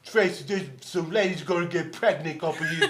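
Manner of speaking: laughing put-on voice; playful leering boast; Tracy Morgan. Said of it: "Tracy Morgan".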